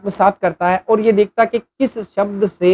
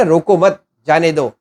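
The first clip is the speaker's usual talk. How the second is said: "रोको मत" said as one unit, then "जाने दो"; pause after MAT; slower than usual. Shown as a demonstration. Teacher showing a comma's effect, pause after मत. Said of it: "हमने comma का ही तो फर्क किया आगे पीछे".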